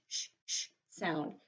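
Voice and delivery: sh said as a long soft hiss; sh sound. Shown as a demonstration. Phonics teacher modelling the sh sound softly. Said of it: "makes the sh".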